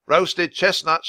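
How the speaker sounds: slow, loud, high vendor cry; vendor's shout. A narrator's reading. Second peddler calling out his chestnuts, slow loud cry. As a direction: draw the call out across the snow. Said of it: "shouted another".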